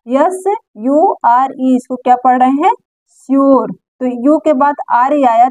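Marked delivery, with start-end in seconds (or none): 3.1-3.7 "श्योर" modelled with an "-yor" ending; teacher's demo of "श्योर", o before the r; "ure" read as "or". Shown as a demonstration. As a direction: say "श्योर" with U as an o sound. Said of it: "इस यू को हम क्या पढ़ रहे".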